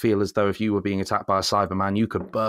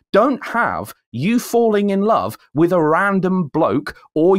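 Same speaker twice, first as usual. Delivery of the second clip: much higher and louder, exasperated; fed-up rant, higher and louder; 8 semitones higher, 3 dB louder than usual. Real, not acted. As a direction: vent at lazy writers. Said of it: "ranting at the trope".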